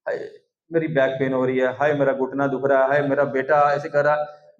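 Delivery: imitating a complaining worshipper; monotone mock moaning; mock self-pitying lament. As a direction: drone out woes in pretend misery. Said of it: "अपने दुख के आंसू निकालते हैं".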